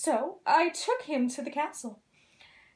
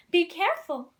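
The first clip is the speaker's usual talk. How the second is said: calling out; 4 semitones higher, 5 dB louder than usual. Acted. Calling after flying dragon.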